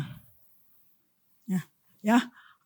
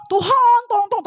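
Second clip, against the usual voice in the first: high, pleading "Tuhan tolong" in a mocking tone; mock whiny plea; 7 semitones higher than usual. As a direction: parody a lazy prayer, pitched up. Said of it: "jangan dikit-dikit minta". (doa merengek yang diejek, nada tinggi)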